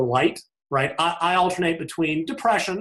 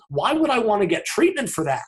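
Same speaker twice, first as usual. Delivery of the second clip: manic disbelief; 6 semitones higher than usual. Acted. Voices manic person refusing treatment.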